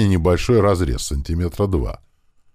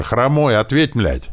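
higher, louder panicked radio call; frightened yelling; 7 semitones higher, 3 dB louder, slower than usual. Acted. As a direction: yell the name in fear. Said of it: "заорал от испуга Антошка".

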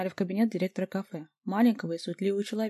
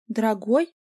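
"Дорогой?" with a sharp questioning rise, louder; incredulous echo; 2 semitones higher, 6 dB louder, slower than usual. A narrator's reading. Vika echoes the word in outraged disbelief, rising. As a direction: throw the word back in disbelief. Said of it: "завопила Вика".

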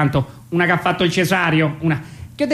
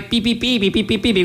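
pi pi said a bit higher; high coo demo; 5 semitones higher than usual. Shown as a demonstration. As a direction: show the coo pitched up. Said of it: "così alto, alto, alto". (un po' più acuto, come dimostrazione)

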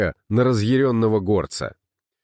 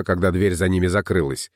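plain reading voice

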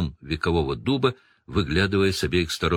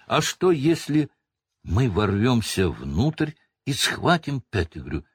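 high, eager blurted suggestion; sudden idea; 3 semitones higher than usual. Acted. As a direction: pitch it up, inspired. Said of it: "неожиданно предложил Гарри".

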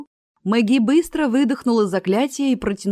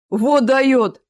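loud surprised exclamation; exclaiming; 5 semitones higher, 7 dB louder than usual. A narrator's reading. Onlooker at the tent exclaims in loud amazement. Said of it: "воскликнул мужчина".

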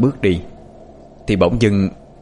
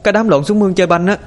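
higher, tearful voice on the edge of crying; whimpering; 10 semitones higher than usual. A narrator's reading. Girl tells the neighbor her brother is missing, higher and whimpering. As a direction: answer while trying not to cry. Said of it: "nhỏ Hiền miếu máu".

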